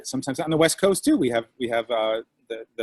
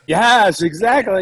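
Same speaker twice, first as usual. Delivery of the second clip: excited yes; 7 semitones higher, 8 dB louder, slower than usual. Real, not acted. Excited agreement.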